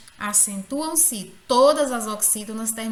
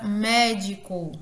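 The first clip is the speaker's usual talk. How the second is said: médico with MÉ stressed; stress on first syllable; slower than usual. Shown as a demonstration. Teacher showing the strong syllable, médico stressed on MÉ. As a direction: lean on the opening mé of médico. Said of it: "o mé é pronunciado com maior intensidade".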